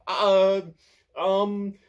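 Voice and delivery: high, loud flustered squeak; squeaky. A narrator's reading. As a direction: squeak out the excuse. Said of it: "squeaks Pothos".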